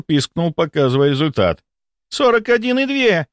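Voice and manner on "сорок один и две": high-pitched, appalled cry; horrified exclamation. A narrator's reading. Nurse reads the thermometer, horrified. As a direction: announce the number in horror. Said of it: "в ужасе воскликнула она".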